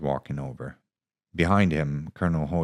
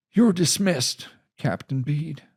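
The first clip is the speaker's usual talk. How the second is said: much higher, louder, firm; commanding dismissal; 12 semitones higher, 5 dB louder than usual. Acted. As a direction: send the captain away.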